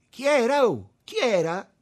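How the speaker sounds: high, loud call; shouted question. A narrator's reading. Tommaso chiede a Lello a gran voce. (domanda gridata)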